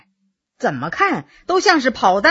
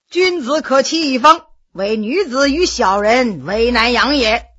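scholarly recital. Acted. 老人摇头对摔倒的罗二爷吟诵古语. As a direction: sigh a proverb like a teacher.

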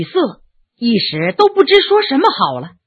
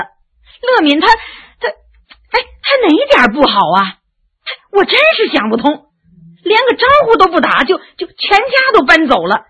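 indignant outburst; 6 semitones higher than usual. Acted. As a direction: throw the question up in disbelief. Indignant outburst about her father.

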